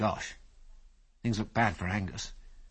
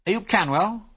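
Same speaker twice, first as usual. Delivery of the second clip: louder, higher call across; 10 semitones higher, 6 dB louder than usual. A narrator's reading. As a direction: call to a man across the field. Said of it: "called Biggles".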